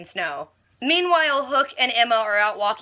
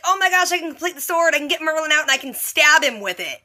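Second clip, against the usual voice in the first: high-pitched giddy rush, imitated; mock someone crazily thrilled with his plan; super jazzed; 6 semitones higher than usual. Arthur thrilled to have the dagger, imitated super jazzed. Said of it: "He's super jazzed about".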